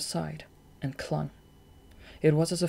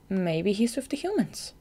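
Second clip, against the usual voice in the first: put-on raised, hopeful young voice; 6 semitones higher than usual. A narrator's reading. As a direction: Marina offering a hopeful guess to Shade, hopeful. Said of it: "Marina said hopefully".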